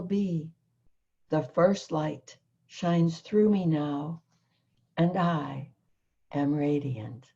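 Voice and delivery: measured, solemn recitation of a prayer; prayer reading. Acted. Guest reads her channeled prayer aloud to the host, solemn recitation. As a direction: read it as sacred verse, holding back tears. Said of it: "I'm gonna try to read it without crying".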